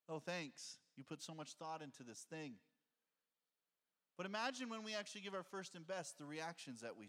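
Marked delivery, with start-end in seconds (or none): 0.1-2.6 dry, sarcastic thanks, voiced softer and lower; a wife unimpressed by a careless gift. Hurt wife thanks her husband sarcastically, low and soft. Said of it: "How does she feel about it?".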